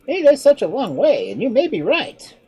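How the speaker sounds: clever monkey. Acted. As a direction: play the monkey, a touch mocking. Monkey speaks.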